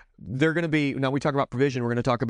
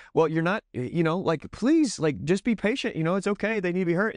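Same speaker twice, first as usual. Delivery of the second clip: higher pleading voice, lightly played; mock worried mother; 5 semitones higher than usual. Father imitating a mother asking him to be patient, higher mock pleading. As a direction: lightly imitate an anxious mom begging for patience. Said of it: "for mothers, sometimes it can seem like".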